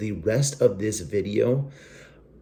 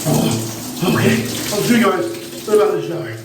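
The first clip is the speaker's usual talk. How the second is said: much higher, slow, gasping from cold; cold shock; 10 semitones higher, 4 dB louder than usual. Real, not acted. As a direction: squeal it out under icy water.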